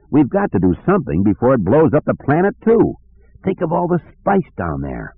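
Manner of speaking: high, wheedling plea; pleading Lando. Acted. Lando pleading with Han to save the spice, high and wheedling. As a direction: beg with a reedy high voice.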